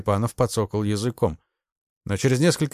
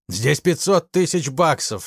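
slow, raised exclamation; exclaiming; 6 semitones higher than usual. A narrator's reading. Ignashevich insisting on the sum to the major, crying out. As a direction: cry it out to make him listen. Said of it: "вскричал Игнашевич".

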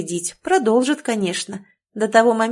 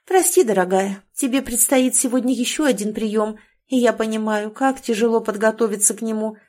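crisp clipped delivery. Acted. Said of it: "отчеканила я".

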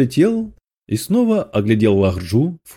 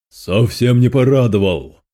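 plain reading voice

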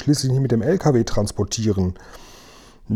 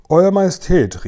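higher-pitched, mildly indignant cry; calling out; 6 semitones higher than usual. A narrator's reading. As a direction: call out in protest, pitched up. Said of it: "rief er". (empört ausgerufen, mit gehobener Stimme)

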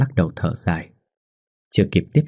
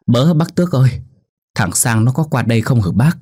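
panicked shout across the yard; frantic calling; 4 semitones higher, 3 dB louder than usual. Acted. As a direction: call out in alarm. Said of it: "giọng nói thất thanh".

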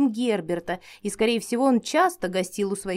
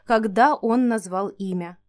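usual speaking voice

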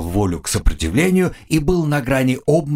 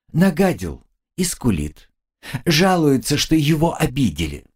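put-on scornful girl; 4 semitones higher than usual. Girl mocks the crybaby.

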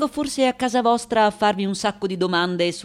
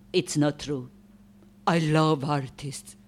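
softened admission; 5 semitones lower, 4 dB quieter than usual. Acted. Takes back her rant.

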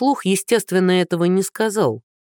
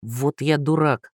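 self-reproach; 2 semitones lower, slower than usual. Acted. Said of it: "ругнулся Андрей".

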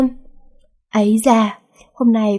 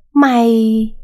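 a sharp, louder furious cry; angry outburst; 5 dB louder than usual. Acted. Father losing patience with his daughter, angry outburst. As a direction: explode at her.

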